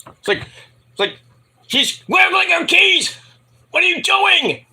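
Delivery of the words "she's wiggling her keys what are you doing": high, slow mock exasperation; exasperated neighbor. Neighbor prodding Jensen to act, high exasperated mock cry. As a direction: egg him on in a high, stretched voice.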